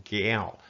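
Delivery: "Gal" gliding down in pitch; falling tone. Shown as a demonstration. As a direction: start "Gal" up and let it fall. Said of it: "With a falling tone".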